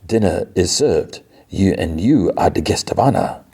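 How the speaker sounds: lightly voiced theatrical host calling a guest to dinner; measured, mock-formal accented invitation; Kurt. Kurt wakes Rogue for dinner, lightly acted courtly host. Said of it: "And he's like".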